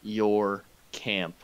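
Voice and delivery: slow, cold demand; menacing question. Acted. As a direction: draw it out like a threat. Repeats the interrogation.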